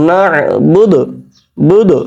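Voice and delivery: "না বুদু" stopped on a d with a short bouncing release; slow recited "না বুদু", last consonant popped; echoed final d. Shown as a demonstration. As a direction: punch "বুদু" and let its final d echo briefly. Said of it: "কলকলা আর কি".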